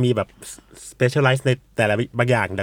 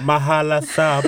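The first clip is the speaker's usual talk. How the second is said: light mock Japanese accent on the festival name; faster than usual. Organiser quoting a Japanese friend saying the festival name, Japanese accent. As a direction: imitate a Japanese friend's syllable-by-syllable pronunciation. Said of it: "ไปเจอเพื่อนญี่ปุ่น".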